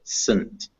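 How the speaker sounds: Sunt with a tiny schwa before N; syllabic N. Shown as a demonstration. Teacher explaining the vowel, "Sunt" with syllabic N. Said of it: "write it with a little schwa".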